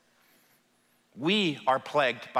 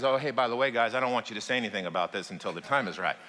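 offhand, low and quick by the end; casual aside; 4 semitones lower, faster than usual. Retold or imitated. Jesus to his disciples walking down the hill, casually. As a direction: toss it off lightly, voice sinking. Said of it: "he just casually says".

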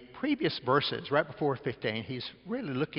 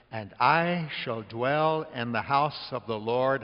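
slow solemn quote; slower than usual. Acted. Quoting Psalm 23 slowly.

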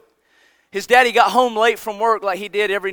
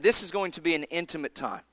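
intimate; 5 dB quieter than usual. Retold or imitated. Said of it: "he said".

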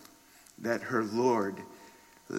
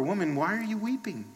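softly voiced, raised question; gentle questioning; 6 semitones higher, 5 dB quieter, faster than usual. Angels to grieving Mary at the tomb, soft questioning. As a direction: ask it gently, with quiet concern.

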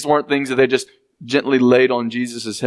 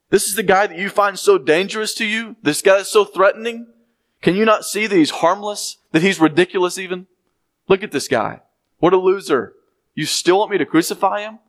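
earnest, higher pleading to the crowd; sincere appeal; 5 semitones higher than usual. Retold or imitated. Pilate pleading with the crowd, sincere and earnest. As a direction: plead with them to see he's harmless. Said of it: "is a sincere".

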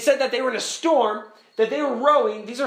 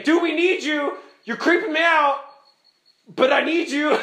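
freaked-out plea; 4 semitones higher, 4 dB louder than usual. Acted. Acts desperate disciples to Jesus.

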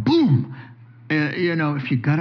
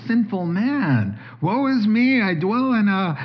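higher, anguished lament of a sinner; mock despairing confession; 5 semitones higher than usual. Rich young ruler confessing his sin to Jesus, in higher mock anguish. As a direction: cry out your woe, pleading. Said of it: "so that he'll say".

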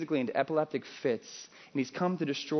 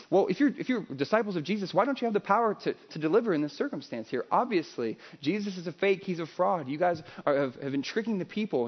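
mocking scribes; 4 semitones higher than usual. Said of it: "they're saying".

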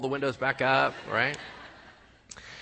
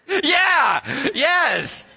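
much higher, louder laughing shout of agreement; laughing yes; 12 semitones higher, 7 dB louder than usual. Real, not acted. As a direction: shout back yes while still laughing. Answering the red beard joke.

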